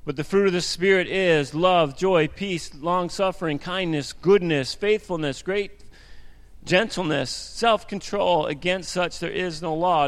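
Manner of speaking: measured, emphatic Bible reading; scripture reading. Acted. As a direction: read each virtue out deliberately. Reads Galatians aloud to congregation.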